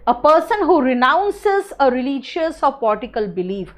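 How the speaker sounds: very slow, word by word, for notes; measured dictation pace. Shown as a demonstration. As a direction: spell the definition out slowly so students can write. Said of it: "reads the definition out".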